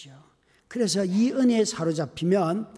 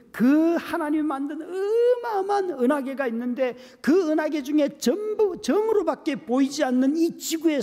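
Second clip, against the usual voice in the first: tearful awe; 8 semitones higher than usual. Real, not acted. Preacher crying out in awe.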